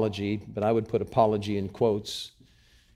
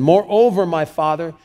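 high, loud impassioned address; impassioned appeal; passionate appeal; 6 semitones higher, 8 dB louder than usual. Acted. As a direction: call out to him with passion. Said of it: "There is passion here".

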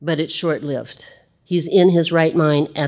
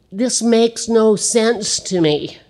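slow, higher, puzzled voice; bewildered Saul; 6 semitones higher, slower than usual. Acted. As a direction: slowly wonder aloud.

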